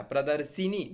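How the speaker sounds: प्रदर्शिनी as pra-dar-si-nee; wrong i vowel. Shown as a demonstration. Teacher showing a misreading, प्रदर्शिनी with si. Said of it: "तो वैसे नहीं होता".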